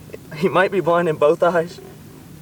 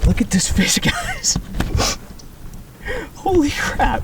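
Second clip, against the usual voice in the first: excited; slower than usual. Real, not acted. Showing huge fish to viewers.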